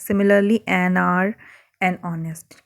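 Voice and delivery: slow, careful reading of examples. Acted. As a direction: read the examples out slowly.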